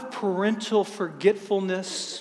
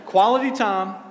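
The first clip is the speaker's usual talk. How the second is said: playful excitement; 3 semitones higher than usual. Retold or imitated. Husband spins it as date night.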